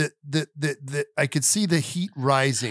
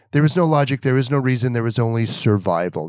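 grim action hero; 5 semitones lower than usual. Retold or imitated. Dad warning his son, grim low action-hero deadpan. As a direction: intone it like a grim movie hero. Dad's mock survival speech to son.

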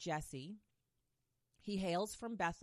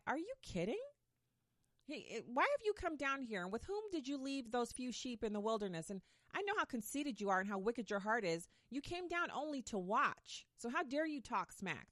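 higher, indignant big brother scolding; scolding older brother; 5 semitones higher than usual. Retold or imitated. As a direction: huff at your kid brother, higher. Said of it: "the older brother was like".

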